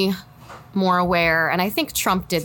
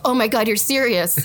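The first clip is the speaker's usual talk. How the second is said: mildly raised, imitated astonishment; retold sudden realization; 4 semitones higher than usual. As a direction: act out husband's dawning shock, a bit higher. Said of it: "it hit him".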